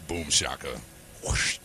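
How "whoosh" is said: breathy whoosh sound effect. Pretend. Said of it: "That was the selfie sound".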